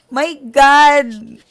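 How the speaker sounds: sudden high, loud "My God!" after a laugh; a loud laughing gasp of shock; shocked outcry. Real, not acted. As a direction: burst out in disbelief. Laughing shock at fate's joke.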